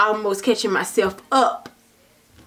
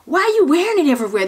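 exasperated; 5 semitones higher, faster than usual. Retold or imitated. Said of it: "I'm like".

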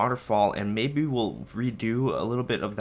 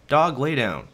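louder, sharp order to the dog; firm command to dog; 4 semitones higher, 6 dB louder than usual. Real, not acted. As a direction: tell the dog off firmly.

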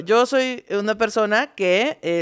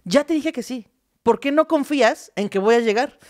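ofendida; 6 semitones higher than usual. Retold or imitated. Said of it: "piensa que es una grosería".

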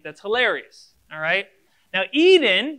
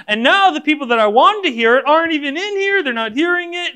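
mock grumbling; 5 dB louder than usual. Pastor complaining to the Lord about attendance, mock indignant build. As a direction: work yourself up into a hammed-up gripe.

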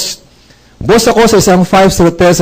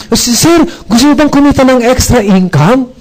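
higher, pressing excited pitch; eager sales pitch; 6 semitones higher than usual. Retold or imitated. Recruiter pitching extra income to the boss, overeager. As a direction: push the offer breathlessly. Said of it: "gigil na gigil siya sa pag-imbita".

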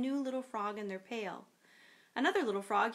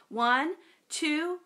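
a louder count, rising high on three; yelled count; 7 semitones higher, 6 dB louder, much slower than usual. Acted. Sister yells the count to her brother, building to a shout. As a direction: count down to the grab and shout the last number. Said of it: "she yelled".

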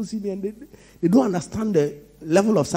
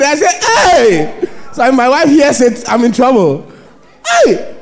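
loud laughing preacher voice, much higher; laughing loudly; 6 semitones higher, 8 dB louder than usual. Real, not acted. Preacher to congregation, laughing loud and high.

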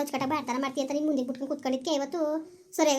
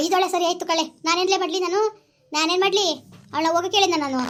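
aggrieved protest; 3 semitones higher than usual. Acted. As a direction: protest your innocence in a quarrel. Acted quarrel, defending against blame.

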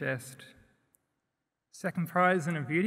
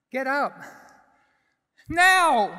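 very high, very loud furious shout; full-force scream of a child at the end of their patience; raised voice, shouting; 12 semitones higher, 11 dB louder, slower than usual. A narrator's reading. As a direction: rip the rage out of your gut and roar it. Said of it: "I raise my voice".

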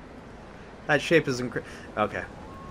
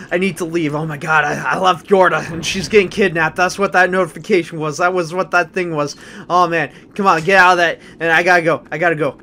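panicked urgency; 3 semitones higher, 5 dB louder than usual. Real, not acted. Rushing to rescue kidnapped companion.

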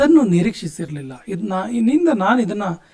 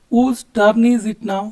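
slow repeat; 3 dB louder, much slower than usual. Shown as a demonstration. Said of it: "ಯಾರ turn ಅಂತ ಕೇಳ್ತೀವಲ್ಲ".

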